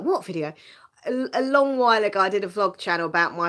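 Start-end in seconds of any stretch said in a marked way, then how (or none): 0.0-0.5 a mock whisper to the viewers; hushed, half-joking whisper; whispered quote. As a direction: whisper it like the viewers' puzzled reply. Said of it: "now you're like".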